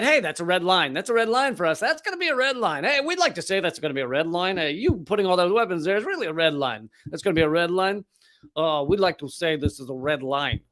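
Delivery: bad attempt at a Russian accent; a weak, half-hearted Russian accent. Russian officials warning the West, weak Russian accent. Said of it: "closest I can get to a Russian accent".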